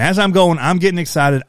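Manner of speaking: Southern twang creeping in with excitement; excited Southern accent. Shown as a demonstration. Showing how his interview voice slipped, excited Southern accent. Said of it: "I started talking like this".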